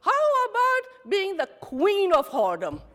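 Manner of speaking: high, loud, laughing through it; laughing suggestion. Retold or imitated. Anchor proposing queen instead, laughing loudly. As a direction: toss it back with a laugh.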